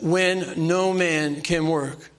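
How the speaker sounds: slow, solemn reading of scripture. Acted. Preacher to his church, reading the verse slowly. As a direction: read the verse slowly and gravely.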